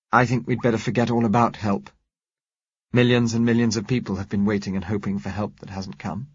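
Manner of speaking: hint of a young woman asking; Josella lightly voiced. Josella doubts help.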